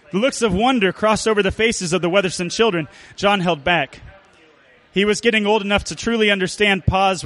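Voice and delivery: lightly put-on storyteller narration; measured, mildly dramatic tale-telling. Reading a Dust Bowl tale to an audience, storyteller voice. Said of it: "read it in the voice of the storyteller".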